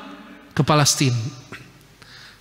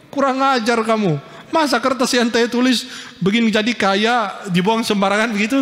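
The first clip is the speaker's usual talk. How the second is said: higher-pitched mock indignation; mildly acted outrage, raised pitch; retold indignant disappointment; 6 semitones higher than usual. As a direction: imitate an offended complainer, pitched up. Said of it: "kecewa dia".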